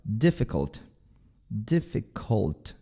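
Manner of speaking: DIFFICULT with very short, lax I's; short I sounds. Shown as a demonstration. Teacher models for learners, short vowels. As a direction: keep both I's in "Difficult" short, tongue up for L. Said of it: "são bem curtinhos".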